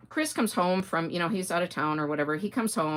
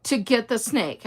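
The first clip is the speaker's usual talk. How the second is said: imitating husband laughing, much higher and louder; laughing disbelief; 7 semitones higher, 6 dB louder than usual. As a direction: quote him through laughter. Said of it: "he starts laughing".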